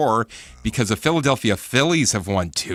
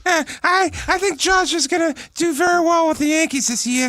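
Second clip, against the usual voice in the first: put-on light New York accent, high pitch. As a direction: talk like a New York sports fan. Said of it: "throw a little New York accent on".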